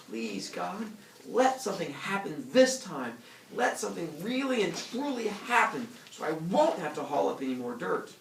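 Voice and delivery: praying. Acted. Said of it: "she prayed".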